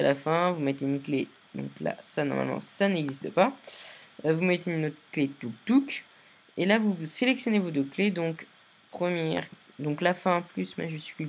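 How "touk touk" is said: quick "touk touk" in higher pitch; little placement sound effect. Shown as a demonstration. Tutorial maker showing viewers where keyframes go, playful "touk touk". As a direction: verbal click-click as keys drop.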